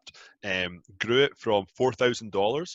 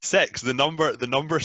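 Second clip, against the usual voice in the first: Scottish six; 4 semitones higher, 4 dB louder than usual. Real, not acted. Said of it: "that's my accent".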